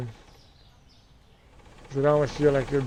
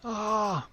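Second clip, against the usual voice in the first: startled cry; 7 semitones higher than usual. Real, not acted.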